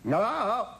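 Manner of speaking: high quavering imitation of Hepburn; Hepburn's voice. Burt on the phone imitating Hepburn answering. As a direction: mimic her famous trembling hello, high and loud. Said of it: "I heard this voice".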